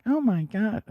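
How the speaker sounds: high-pitched imitation of gushing delight; mock excited. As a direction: squeal it in exaggerated excitement. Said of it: "that excited".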